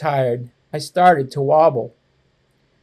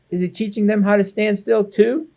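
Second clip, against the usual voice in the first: higher and fast, sarcastic question; cheeky kid; 5 semitones higher than usual. Acted. Boy mocking grandpa's lessons to mom, fast and high. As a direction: toss it off with boyish sarcasm.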